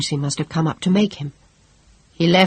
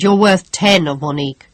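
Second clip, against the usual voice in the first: emphatic; 6 dB louder than usual. Acted. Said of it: "her father cried".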